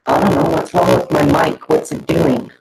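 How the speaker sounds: robotic bad connection audio; glitchy robotic mic sound. Real, not acted. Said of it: "Oh, you're robotic".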